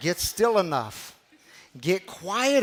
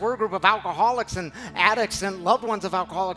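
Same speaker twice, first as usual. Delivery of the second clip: pleading; 3 semitones higher than usual. Pretend. Imagined plea to Jesus.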